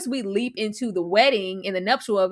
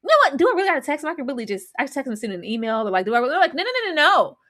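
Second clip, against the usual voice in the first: mock inner debate; 2 semitones higher, much faster than usual. Acting the woman's inner debate.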